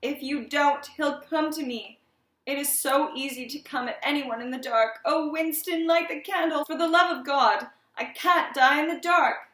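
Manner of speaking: high, urgent frightened pleading; voice breaking in terror. A narrator's reading. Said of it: "His voice broke".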